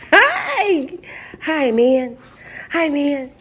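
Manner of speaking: high, bright cooing at a pet. Real, not acted. Greeting the dog.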